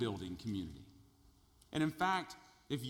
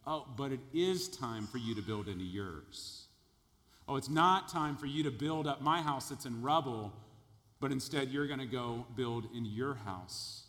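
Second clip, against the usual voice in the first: sarcastic; 2 semitones lower than usual. Retold or imitated. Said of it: "There's sarcasm here".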